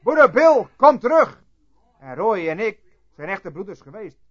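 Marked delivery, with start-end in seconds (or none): 0.0-1.4 high, loud call after someone leaving; retold shout. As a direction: re-enact a desperate cry to come back. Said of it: "Het scheen of ik dagenlang schreeuwde".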